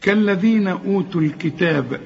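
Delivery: linked recitation, echoed b ending الكتاب; bouncing final baa. Shown as a demonstration. Teacher shows stopping on the word, qalqala on الكتاب. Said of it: "إذا وقفت على الكتاب قلقل الباء".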